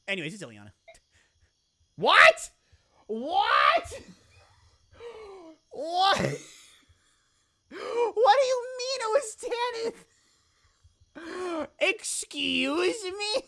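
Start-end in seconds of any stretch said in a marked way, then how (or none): 2.0-6.2 loud high disbelieving What; stunned streamer yelling at the screen; shocked outburst. Real, not acted. Shocked by game's MVP result. 6.2-13.4 high, loud, slow half-crying outrage; real outraged surprise at the game; stunned disbelief. Real, not acted. Disbelief at wrong MVP guess.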